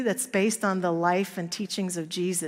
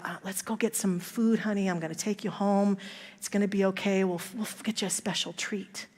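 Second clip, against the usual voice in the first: put-on softer, gentle reassurance to a hurt child; tender comfort; 5 dB quieter than usual. Foster mother gently reassuring the abused little boy, soft and tender. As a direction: quietly promise him he's safe now.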